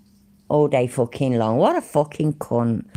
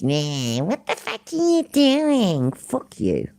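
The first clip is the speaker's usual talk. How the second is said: put-on nasal American accent; 3 semitones higher than usual. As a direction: whine it like a bad American accent. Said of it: "These sound like fucking nasally".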